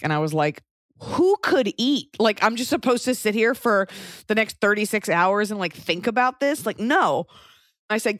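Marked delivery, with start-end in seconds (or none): 1.0-7.3 incredulous. Retold or imitated. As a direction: say it like it's absurd. Outraged at waiting.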